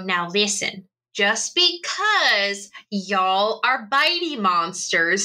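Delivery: mild drawn-out telling-off; mock scolding. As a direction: lay down the law to naughty pets. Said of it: "I go".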